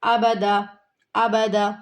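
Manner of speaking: ابدا said quickly, clipped short; rushed wrong reading. Shown as a demonstration. Teacher mimics students' hasty mistake, quick. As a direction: rattle off ابدا too fast. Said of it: "ایسے جلدی سے نہیں پڑھنا".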